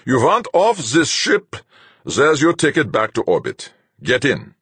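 commanding captain, cold; stern captain. A narrator's reading. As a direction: lay it out like a hard captain. Captain Fuchs' voice.

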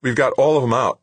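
upbeat and relieved; excited report. A narrator's reading. Anson reporting success.

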